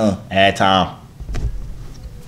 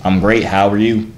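put-on country-accent small talk. Making small talk with a stranger, country accent. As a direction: chat in a Southern country accent. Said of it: "let me do a break from the accent".

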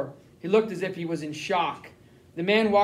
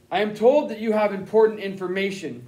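crisp officer; 2 semitones higher, 4 dB louder than usual. Acted. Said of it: "he said crisply".

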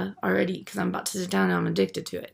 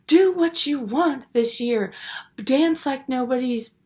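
mock friend's speech; 5 semitones higher, slower than usual. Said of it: "She goes".

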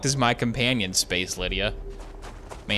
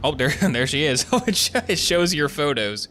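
laughing; 4 semitones higher than usual. Real, not acted. Laughs at loading screen.

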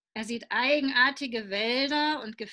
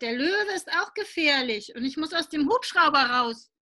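put-on whining child; 5 semitones higher than usual. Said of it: "Willi quengelt".

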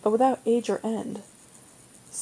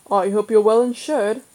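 cheerful; 5 dB louder than usual. A narrator's reading. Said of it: "Father said cheerfully".

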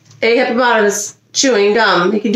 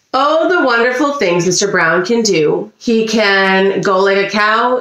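lively storybook read-aloud; reading to children. A narrator's reading. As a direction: read it like a picture book to little kids. Reading picture book to kids.

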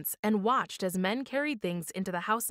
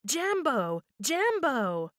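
parrot screech; 5 semitones higher, much slower than usual. A narrator's reading. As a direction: squawk it like a parrot. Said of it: "just then the voice screeched".

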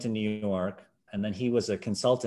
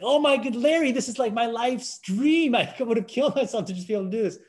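much higher, louder, hammed-up anguish; telling Larry he missed his life's dream, hammed-up despair; mock despair; 13 semitones higher, 3 dB louder than usual. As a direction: wail about the lost dream in mock agony.

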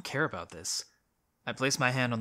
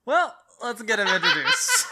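hammed-up announcer; 10 semitones higher, 8 dB louder than usual. Mock grand announcement.

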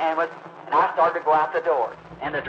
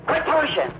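hollering crowd; 12 semitones higher than usual. Retold or imitated. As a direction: shout at him to stop shoving. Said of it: "everybody hollered".

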